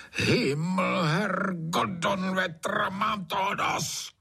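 Trautenberg bellows, high and strained; roaring. A narrator's reading. Trautenberg kept awake by singing frogs, roaring. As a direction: roar it out in a fury, slowing at the end. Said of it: "zařval Trautenberg".

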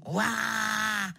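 long mock roar; leopard roar. Leopard answering the writer back, mock roar. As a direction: let out an open "wah" roar. Leopard roars after its retort.

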